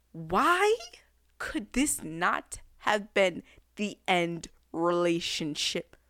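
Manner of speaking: slow whisper; whispered plea. Real, not acted. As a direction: whisper it as if in despair. Pleading about the ending.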